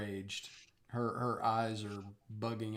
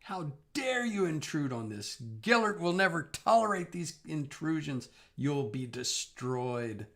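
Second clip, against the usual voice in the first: put-on old hag; 6 semitones higher, 6 dB louder than usual. Tied-up villain ranting at party.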